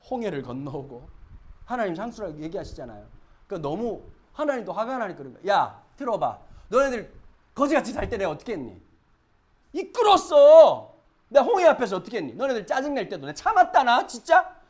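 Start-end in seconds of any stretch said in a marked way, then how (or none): 5.5-14.6 loud, high scolding divine voice; angry God scolding. Acted. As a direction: rebuke ungrateful people.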